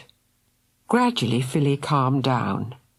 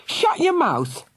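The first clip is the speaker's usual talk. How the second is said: mild shout; 13 semitones higher, slower than usual. A narrator's reading. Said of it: "shouted Fergal".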